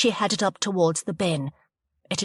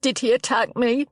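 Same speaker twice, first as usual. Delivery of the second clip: cried out; 7 semitones higher than usual. Acted. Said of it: "she cried".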